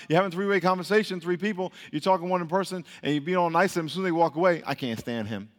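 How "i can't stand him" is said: low, hushed mock aside; imitating a two-faced mutter; behind-the-back aside. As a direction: drop it under your breath, as if they just left. Muttering once the person walks away.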